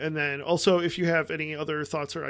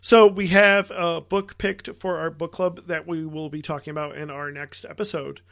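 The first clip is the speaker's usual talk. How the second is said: loud, eager big reveal; announcing big news; 8 dB louder than usual. Real, not acted. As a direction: proudly announce the pick. Announcing the book club pick.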